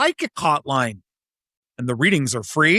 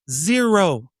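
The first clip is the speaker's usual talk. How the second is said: ZERO drawn out more firmly; firmer zero. Shown as a demonstration. Correcting a weak take, a firmer ZERO. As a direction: put more weight on ZERO. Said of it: "Not too weak".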